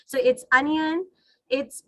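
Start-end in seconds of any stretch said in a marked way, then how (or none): 0.5-1.1 ONION as UN-yun; correct onion. Shown as a demonstration. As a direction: model "onion" with a short uh first vowel. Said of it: "still we pronounce it wrong".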